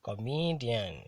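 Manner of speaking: "Comedian" with ME drawn out, then falling; careful model reading of "Comedian", stressed on ME; penultimate stress. Shown as a demonstration. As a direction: lean slowly on ME in "Comedian". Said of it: "stressed on the penultimate syllable".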